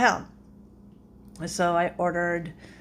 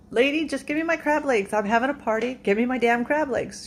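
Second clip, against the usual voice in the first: retold pissed off; 2 semitones higher than usual. Customer demanding crab legs for a party, pissed off. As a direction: act out a fed-up customer pleading. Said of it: "I'm getting really pissed".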